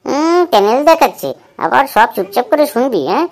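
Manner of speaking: friend jeering at his pal's flop, high and loud; mocking scold. Mocking friend after the failed purchase.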